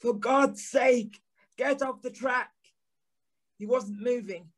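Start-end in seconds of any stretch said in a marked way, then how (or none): 0.0-2.5 urgent plea. Acted. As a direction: drag out the plea to move. Pleading with the man.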